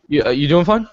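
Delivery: quick check-in with words run together; hurried, slurred-together asking; rushed question. Real, not acted. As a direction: blurt the question out fast. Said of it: "said it so damn fast".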